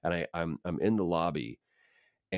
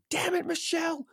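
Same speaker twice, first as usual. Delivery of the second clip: high, loud, irritated holler; yelling down the hall; 5 dB louder than usual. Retold or imitated. Casting agent hollering for lunch at an assistant, yelling. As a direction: yell it down a corridor, imitating an angry boss. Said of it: "yelling down the hall".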